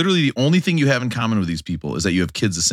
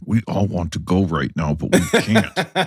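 parenting voice; 5 semitones lower, slower than usual. Retold or imitated. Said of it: "say under your breath in that parenting voice".

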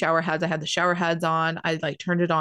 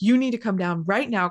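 urgent, dead-serious demand; retold seriousness; 2 semitones higher than usual. Partner ordering mom and aunt downstairs, very serious. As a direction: imitate a partner insisting firmly. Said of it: "Kyle's, like, so serious".

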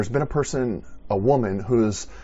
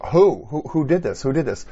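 sharp loud higher cry of who, settling down; urgent call; 5 semitones higher, 5 dB louder than usual. Acted. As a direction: demand an answer from the crowd. Jesus searching the crowd.

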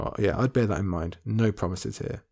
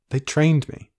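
whimpered; 4 semitones higher, slower than usual. Acted. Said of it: "Jane whimpered".

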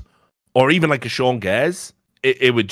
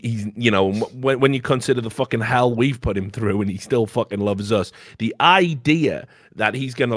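ordinary talk

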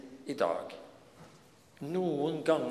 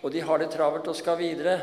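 quick hushing that swells higher and louder; hushing bystanders; 5 semitones higher, 4 dB louder than usual. Acted. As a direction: bystanders scolding Bartimeus, quick then louder. Bystanders hush the blind man.

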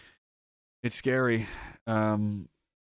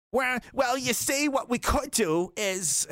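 smug lawyer; 8 semitones higher, slower than usual. Retold or imitated. Smug lawyer sing-song.

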